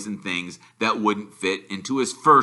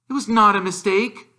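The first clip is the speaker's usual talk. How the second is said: angry; 12 semitones higher, 5 dB louder than usual. A narrator's reading. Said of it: "said Harry angrily".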